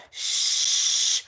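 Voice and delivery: a quick whispered shh; shushing whisper. Retold or imitated. Telling viewers not to say Diddy, whispered shh. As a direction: hush the room before the D word. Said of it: "You just gotta be like".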